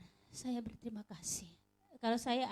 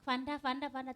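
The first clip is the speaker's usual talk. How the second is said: mild mock yell, higher and louder; retold yell; 4 semitones higher, 5 dB louder than usual. Woman retells calling Vanda with her last strength, mild yell. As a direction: call out urgently, retold at half strength. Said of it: "saya teriak".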